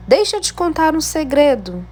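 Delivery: lifted, eager exclamation read high; exclamatory tone. Shown as a demonstration. Teacher showing pupils an exclamation mark, excited exclamatory reading. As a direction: announce the secret with excitement. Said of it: "Eu utilizei o ponto de exclamação".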